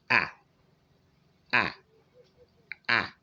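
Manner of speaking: short open ah, lips spread, mouth wide; drawn-out ah. Shown as a demonstration. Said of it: "your lips are spread".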